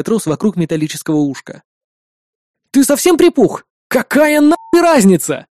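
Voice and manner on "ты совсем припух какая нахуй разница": higher, heated cursing; swearing angrily. A narrator's reading. Hero cursing at partner over the knot, heated and higher. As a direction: snap at your partner in frustration. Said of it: "выругался я".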